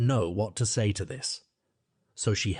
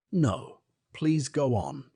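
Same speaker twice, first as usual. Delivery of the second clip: humble; 4 semitones higher, much slower than usual. A narrator's reading. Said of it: "Alice said very humbly".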